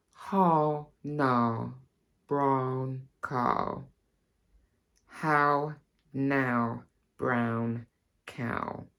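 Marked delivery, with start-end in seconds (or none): 0.1-3.8 put-on old-school RP, slow spaced vowels; careful Received Pronunciation, drawn-out vowels; RP accent. Shown as a demonstration. Accent teacher showing learners the classic RP phrase, RP accent. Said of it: "pronounced the first phrase slightly differently to my own accent".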